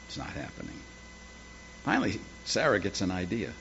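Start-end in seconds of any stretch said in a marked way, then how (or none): 0.1-0.8 whispered, with a rise on not; hushed, stressed not; whispered lament. Acted. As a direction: breathe it out, pitched up. Repeated, whispered again.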